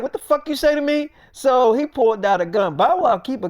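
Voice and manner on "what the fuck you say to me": higher, indignant challenge; retold outraged comeback; affronted. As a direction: demand it as if insulted. Acted quarrel, answering an insult.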